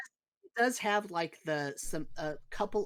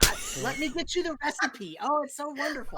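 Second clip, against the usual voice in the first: high, fast and thrilled; bursting with joy over his recipe; overjoyed innkeeper; 10 semitones higher, 4 dB louder, faster than usual. Acted.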